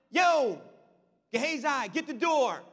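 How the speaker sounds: loud call down the stairs; yelling down. Retold or imitated. Prophet yelling down to his servant, loud call. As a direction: yell for the servant to get the door. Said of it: "Elisha yells down".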